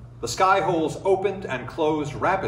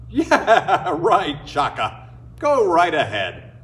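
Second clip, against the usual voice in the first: mocking laugh; 3 semitones higher, 3 dB louder, slower than usual. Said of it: "Everyone laughed".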